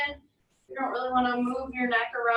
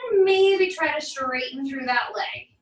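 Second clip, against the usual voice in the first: maybe and try leaned on, a bit louder; stress on maybe and try; 5 dB louder than usual. Shown as a demonstration. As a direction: hit maybe and try, the rest easy. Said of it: "Emphasis on the word maybe and try".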